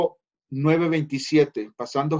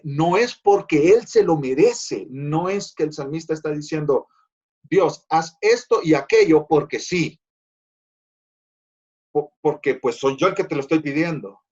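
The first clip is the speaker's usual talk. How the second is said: demanding attitude; 4 dB louder than usual. Retold or imitated. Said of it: "con esa actitud".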